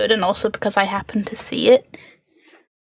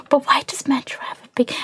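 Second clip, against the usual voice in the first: shocked whisper; 2 semitones higher, 5 dB quieter, faster than usual. Real, not acted. Gasp then whisper.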